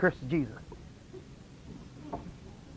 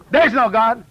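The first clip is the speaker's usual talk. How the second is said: louder retold challenge; insistent heckle; 5 dB louder than usual. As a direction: heckle loudly, imitating a bothered atheist. Heckler's third try, retold.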